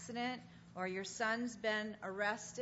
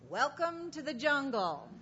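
higher, louder mock greeting; wry announcement; 4 semitones higher, 4 dB louder than usual. Speaker to congregation, mimicking what she wants to say each morning, mock announcement. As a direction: announce it like a sardonic welcome. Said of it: "I want to say".

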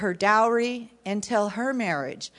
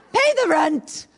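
hammed-up villain, pushing harder; mustache twirling villain; 7 semitones higher, 3 dB louder than usual. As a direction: lean in like a cartoon landlord. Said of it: "So here we go".

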